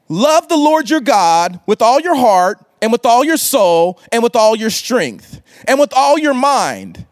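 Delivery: scripture reading. Acted. Scribe quotes the commandment.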